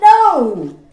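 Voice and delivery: shouted no. Acted. Emma refuses outright.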